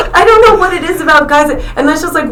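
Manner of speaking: high voice through real laughter; high, giggly, words riding on laughter; laughing. Real, not acted. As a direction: talk while still cracking up. Talks while still laughing.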